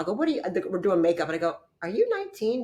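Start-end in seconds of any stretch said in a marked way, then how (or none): 0.1-0.4 high, startled disbelief; mock shock at the girls' age; shocked question. Shocked at young models. 1.8-2.6 high, disbelieving question; stunned asking the girls their age; incredulous. Retold or imitated. Shocked at young models.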